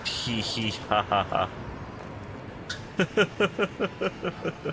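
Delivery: cartoon laugh. Real, not acted. Laughing at own mistake.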